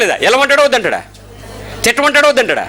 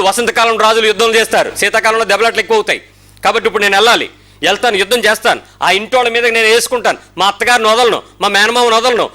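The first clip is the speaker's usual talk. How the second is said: mock prayer; 3 semitones higher than usual. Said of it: "ఇప్పుడు మనం ఏం అడగాలి?".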